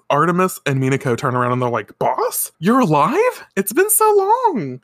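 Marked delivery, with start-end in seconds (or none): 2.0-4.8 high, climbing mock amazement; hammed-up surprise at a reunion; astonished greeting. Artemis and Minako turning round to see Boss, mock amazed high voices.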